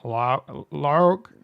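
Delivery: a loud, lightly voiced Vader; a hint of Vader with some Sean Connery; Darth Vader impression. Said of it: "It does kinda sound like Sean Connery".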